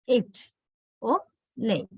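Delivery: "it or lay" as "eyt" and "ley", slightly gliding; touch of diphthong. Shown as a demonstration. Teacher showing English speakers' way, touch of diphthong. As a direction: drag the vowels in "it or lay" slightly towards ee. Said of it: "say it with a touch of diphthong".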